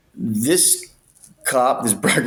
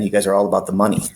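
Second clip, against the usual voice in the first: whispered threat; faster than usual. Retold or imitated. Threatening cop, fast.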